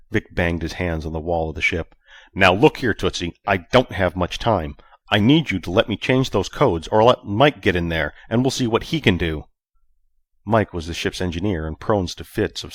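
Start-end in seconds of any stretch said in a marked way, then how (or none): 2.3-9.4 angry. Acted. Vic threatening Tootsie.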